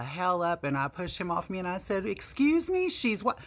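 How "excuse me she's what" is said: high, shocked outcry; retold shocked yelp. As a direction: squeak it out in disbelief.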